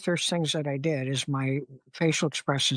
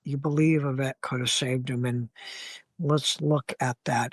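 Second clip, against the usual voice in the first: calm reassuring vet. Shown as a demonstration. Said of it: "my job to be able to take and go".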